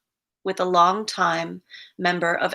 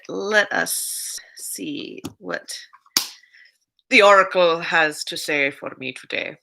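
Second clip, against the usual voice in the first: playful oracle suspense; 2 semitones lower than usual. Pretend. Asking the oracle for today's message, playful suspense. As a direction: build suspense with long, lingering words. Mock-solemn consulting of oracle cards.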